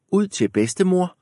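put-on high little girl voice. A narrator's reading. Red Riding Hood tells the wolf, high girl voice. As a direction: answer like an eager little girl.

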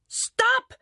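very high, urgent cry; alarmed shout. A narrator's reading. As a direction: shout to halt a runaway sled. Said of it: "råber Rita". (højt, forskrækket råb)

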